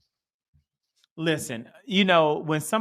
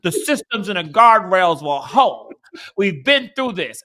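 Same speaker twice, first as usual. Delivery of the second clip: mocking smug pundit; 6 dB louder than usual. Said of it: "they were like".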